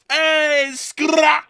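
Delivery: high, loud announcer shout; hammed-up high yell; mock call-out. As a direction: call it out like a showman. Calling out segment intro.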